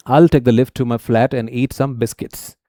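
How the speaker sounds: slow, careful British English reading; British accent. Shown as a demonstration. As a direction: read it out slowly in a British accent for learners. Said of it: "British version में होगा".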